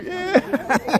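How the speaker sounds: squeaky high pet-voice yeah; cooing at a little dog. Real, not acted. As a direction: coo it way up high. Greeting dogs in costumes.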